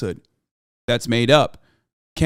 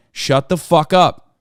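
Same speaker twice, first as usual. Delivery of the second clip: slow angry snap; 4 dB louder, much slower than usual. Real, not acted. Telling caller to shut up.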